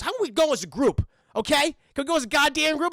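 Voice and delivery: lightly voiced fed-up slacker; Shaggy. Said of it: "Shaggy's like".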